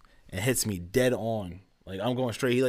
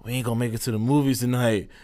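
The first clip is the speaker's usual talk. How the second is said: nonchalant. Retold or imitated. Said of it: "mad nonchalant about it".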